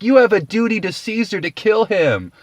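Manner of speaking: high, loud booing mob; mock crowd jeer. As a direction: heckle like a hostile rabble. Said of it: "they're all like".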